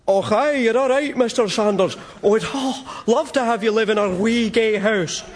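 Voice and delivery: put-on Glaswegian accent. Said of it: "excited Glaswegian".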